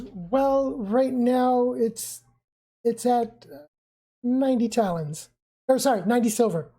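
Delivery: stall, then blurt the confession slowly; sheepish Rio. Acted. GM voices Rio admitting debt.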